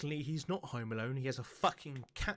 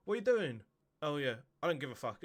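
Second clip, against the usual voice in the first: dismissive cat; 4 dB louder, faster than usual. Retold or imitated. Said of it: "Cats are just like".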